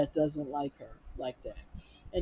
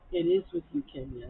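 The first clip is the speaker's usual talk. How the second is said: retold retort; 2 semitones lower than usual. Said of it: "And Toya says".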